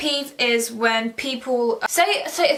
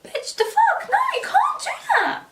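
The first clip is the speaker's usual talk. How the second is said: incredulous whisper. Retold or imitated. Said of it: "it's like".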